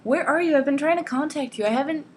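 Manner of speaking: high, frantic mock whine; whining. Jose pleading with Ana on the phone, freaking out and whining. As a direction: whine it hammed-up, dragging out the end. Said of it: "completely freaking out and whining".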